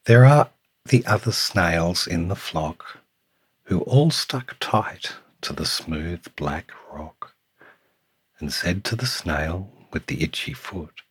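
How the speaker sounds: lilting storytime read with punched key words; picture book narration. A narrator's reading. Reading a picture book to Samuel, lilting storytime voice. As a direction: read it to a small child, savouring the rhyme.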